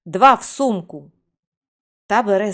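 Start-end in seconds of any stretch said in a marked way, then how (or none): 0.1-1.1 louder firm command; shouted spell. Acted. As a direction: call them off with a firm shout. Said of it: "і крикнув". (рішучий гучний вигук)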